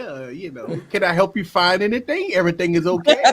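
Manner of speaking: overly helpful salesman voice; customer service voice. Retold or imitated. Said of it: "Eric put that customer service voice over Emily".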